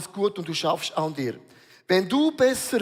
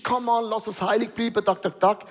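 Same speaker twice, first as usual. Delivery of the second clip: mock preaching; 2 semitones higher than usual. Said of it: "weil du preachst".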